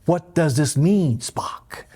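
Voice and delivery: slow, lightly imitated starship captain; Captain Kirk. Teacher quoting Captain Kirk asking Spock, slow light impression. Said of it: "as Captain Kirk of the U S S Enterprise would put it".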